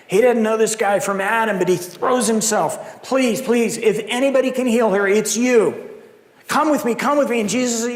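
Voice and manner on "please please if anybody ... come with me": pleading father. Acted. Jairus pleading voiced.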